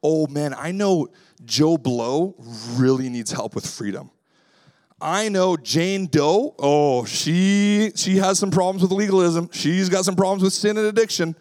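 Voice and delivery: mock self-righteous gossip; smug judging. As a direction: point fingers at others, smug. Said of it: "it's easy to hear a sermon like this and to say".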